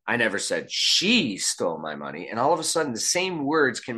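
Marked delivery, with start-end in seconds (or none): 0.1-2.3 she pushed up with a rise; stress on SHE. Shown as a demonstration. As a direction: point the finger with she. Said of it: "you can say the same set of words".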